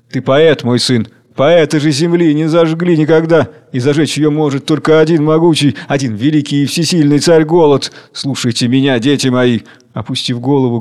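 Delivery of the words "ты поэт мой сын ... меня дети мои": measured, lofty condescension; patronizing. Acted. King lectures the dreaming worker, patronizing. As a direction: talk down like an indulgent ruler. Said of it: "Царь голод говорит покровительственно".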